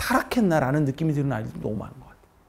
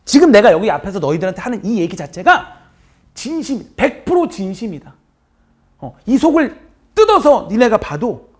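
loud, higher, slowing down; heartfelt raised teacher voice; passionate insistence; 6 semitones higher, 11 dB louder than usual. Real, not acted. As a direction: plead your sincerity with full force.

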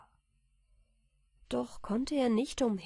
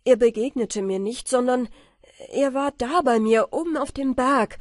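louder, pressing account; insistent explaining; 4 semitones higher, 8 dB louder than usual. A narrator's reading. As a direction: talk over her objections. Michael erklärt sich laut. (Michael beharrt lauter)

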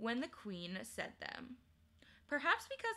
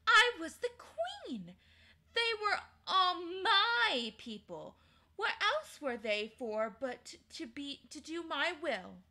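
imperious queen; 7 semitones higher, 6 dB louder than usual. Acted. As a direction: pronounce it as law. Queen justifies herself.

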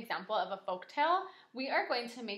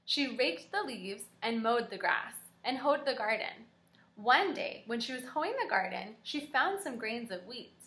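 put-on reading to children. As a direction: read the tale aloud to little kids. Reads folk tale.

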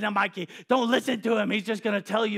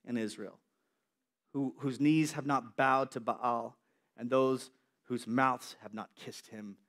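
gentle voice of God; 4 semitones lower than usual. Acted. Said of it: "And he says".

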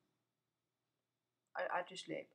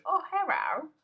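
mock creeper voice; 2 semitones higher, 7 dB louder than usual. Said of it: "a creepy just... goes".

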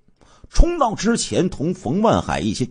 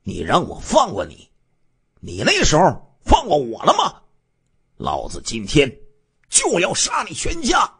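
grim then furious; 4 semitones higher than usual. Acted. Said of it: "阴沉着脸说".

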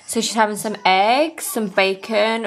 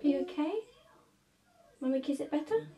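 kissing it better; 7 semitones higher, 12 dB quieter, faster than usual. Real, not acted. Comforting toddler after bump.

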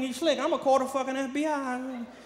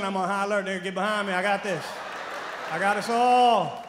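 lightly voiced street bravado; mock tough guard; 3 semitones lower than usual. Shown as a demonstration. Comic showing his own high alert, mild tough-guy voice. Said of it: "my version of high alert".

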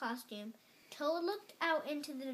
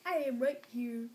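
answering call; 6 dB louder than usual. A narrator's reading. Frog answers lost Toad.

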